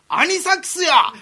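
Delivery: high, loud, slow cry of the answer; sudden shout. Retold or imitated. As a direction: blurt it out like a revelation. Sick senior shouts the answer.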